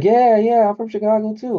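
an imitated excited claim; mock eager claim. A suburban guy claiming Chicago too, in loud high mock eagerness. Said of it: "They're like".

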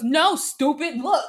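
high, loud laughing bark; laughing mock scold. Retelling the girl nudging her friend, loud laughing mock scold. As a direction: scold through giggles. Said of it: "And then she goes".

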